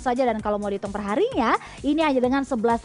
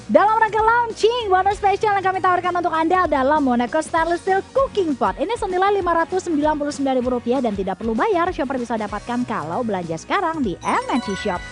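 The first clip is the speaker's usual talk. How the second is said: polished ad read; infomercial. Acted. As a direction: read it like a home shopping voiceover. Voiceover product promo read.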